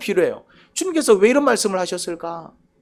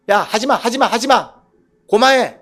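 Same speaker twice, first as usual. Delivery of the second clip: irritated command; 3 semitones higher, slower than usual. Shown as a demonstration. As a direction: snap at them to quit. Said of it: "지 감정대로 얘기하는 것 같죠".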